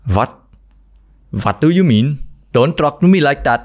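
put-on indignant Indian English accent; offended Indian guy pushing back; touchy, defensive Indian accent. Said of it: "Tiếp theo là anh Ấn".

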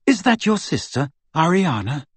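timid. A narrator's reading. Hermione asking about the sister, timidly. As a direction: ask delicately, a touch timid. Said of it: "said Hermione rather timidly".

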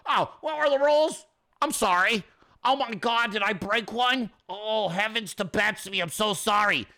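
put-on contrite whine; mock apology. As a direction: feign being sorry for breaking a rule.

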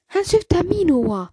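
high, loud dismayed cry; stunned, slow and high; dismayed kitten. A narrator's reading. Kitten's shocked thought in story.

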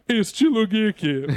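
giggling through the words; laughing. Real, not acted. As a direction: say it while still laughing. Rindo ao encerrar a piada. (falando rindo)

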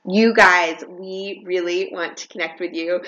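rally the listeners to write in; eager appeal. Real, not acted. Host begging listeners to reach out, high eager appeal.

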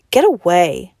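a sharp shout. A narrator's reading. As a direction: push her off with the shout. Boy shoving Margot.

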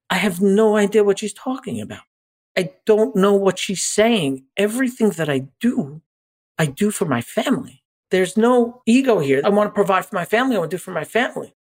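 mild echo of pleading through tears; understated emotional protest to the therapist; retold upset plea. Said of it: "uncontrollable crying".

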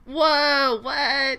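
high, loud burst of real surprise; surprised gasp. Real, not acted. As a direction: blurt it out, caught off guard. Reacting to news of zero positives.

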